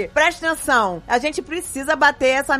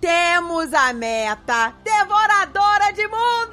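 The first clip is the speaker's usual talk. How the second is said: big hyped announcement shout; booming hype shout; 3 semitones higher, slower than usual. Real, not acted. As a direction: belt out the reveal. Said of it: "de tanto que eu tô gritando".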